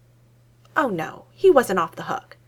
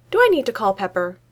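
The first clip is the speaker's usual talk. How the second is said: louder, teasing threat to call Pepper; mock threat; 3 semitones higher, 6 dB louder than usual. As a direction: wave the threat like a trump card. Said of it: "nothing to do with that threat".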